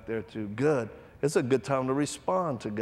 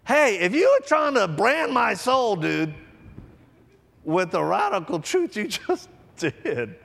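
much higher, louder, slow and laughing; loud awed exclaim; 10 semitones higher, 6 dB louder, slower than usual. Retold or imitated. Preacher telling his dying friend he branded his soul, awed. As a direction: marvel at it out loud. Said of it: "I just went".

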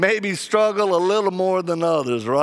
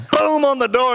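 a louder burst for the knock; loud bang; 9 semitones higher, 4 dB louder than usual. Retold or imitated. Preacher retelling the knock, loud. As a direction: punch it out.

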